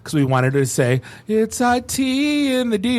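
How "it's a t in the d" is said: slow, high hammed-up intro line; mock intro drop. Podcasters asked for an intro, drawn-out hammed drop. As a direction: say it like a show intro drop, slowly. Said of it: "to play in the beginning of the podcast".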